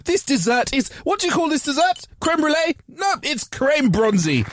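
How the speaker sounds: high put-on toff; posh diner voice. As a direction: play a grand aristocrat naming things. Posh character ordering.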